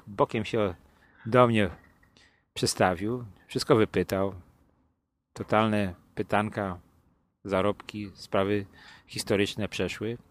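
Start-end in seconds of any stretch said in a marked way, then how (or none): none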